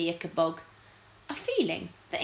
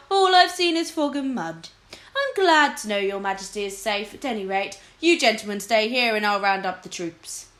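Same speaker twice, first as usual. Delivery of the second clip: respectful captain; 3 semitones higher, 5 dB louder than usual. Acted.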